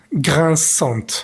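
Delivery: "Grinçante" with the final T clearly sounded; teacher modelling the feminine T in "Grinçante"; pronouncing the T. Shown as a demonstration. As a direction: say "Grinçante" ending on a crisp T. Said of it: "tenemos que pronunciar la T".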